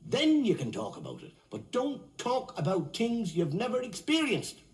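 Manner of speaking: mildly indignant, building argument; indignant retort. Acted. Drinker answering a preaching nun, mounting indignation. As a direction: argue back, pitch climbing as you go.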